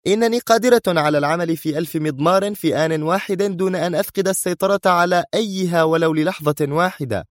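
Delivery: heated, high-pitched woman's tirade; sharp. A narrator's reading. Sonia rebukes the man who doubted her, sharp. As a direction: sustain a high, sharp boast. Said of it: "وتواصل في حدة".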